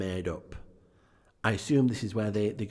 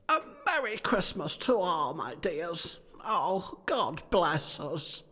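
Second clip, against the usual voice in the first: much higher, warm toast; a raised, cheery family man voice; high cheerful father; 9 semitones higher, slower than usual. Acted.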